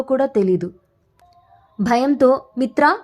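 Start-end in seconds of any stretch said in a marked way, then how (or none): 2.6-3.0 a scared high cry of his name in the dark; frightened call. A narrator's reading. Woman alone in a dark room calls her friend, frightened. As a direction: call out in fear, pitched up. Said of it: "అని గట్టిగా అరిచింది".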